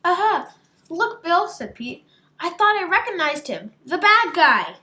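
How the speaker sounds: high, loud aha of recognition; excited discovery. Acted. Pete spots the bad guy, high loud excited aha. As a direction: shout it like catching the crook.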